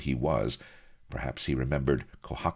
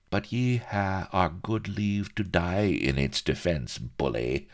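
high, mocking pirate dandy; jeering with mock generosity; 8 semitones higher than usual. A narrator's reading. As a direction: taunt him in a raised character voice. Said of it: "mocked Bilbo".

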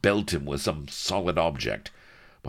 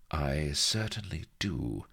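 cold; 2 semitones higher, 3 dB quieter than usual. Acted. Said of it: "said Vanity coldly".

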